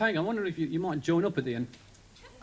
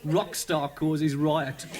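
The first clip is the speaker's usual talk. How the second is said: headline read; much slower than usual. Retold or imitated. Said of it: "in the newspapers".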